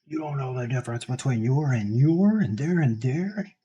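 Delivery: slow, smug grammar-nazi voice; pedantic. Retold or imitated. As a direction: correct him like a know-it-all. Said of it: "I'm a grammar Nazi".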